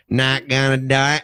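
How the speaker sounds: slow, firm put-on Bush voice; slow and stubborn, presidential; Dana Carvey's Bush. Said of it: "Dana Carvey doing him".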